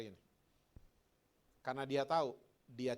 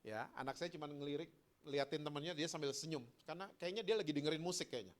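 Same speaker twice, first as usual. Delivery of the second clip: usual speaking voice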